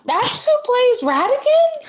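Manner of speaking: gasping, high and slow; stunned, disbelieving question; shocked gasp. Real, not acted. A guest learning who plays Radigan, gasping in shock. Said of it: "gasps, shocked question".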